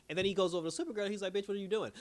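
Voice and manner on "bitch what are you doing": higher mock scolding, laughing. Brainiac scolding Supergirl, retold with a laugh. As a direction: play the insult for laughs.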